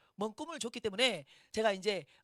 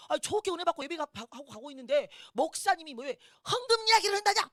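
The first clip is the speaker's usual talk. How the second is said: higher, slightly louder mock complaint; retold irritated grumbling; 5 semitones higher, 5 dB louder than usual. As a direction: imitate an annoyed husband griping. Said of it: "제가 막 성질을 하더라고요". (짜증 내며 불평하는 남편 흉내)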